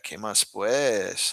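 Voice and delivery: slow Paisa phrase, falling at the end; Paisa accent. Shown as a demonstration. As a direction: repeat it the Medellín way. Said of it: "this is very Paisa".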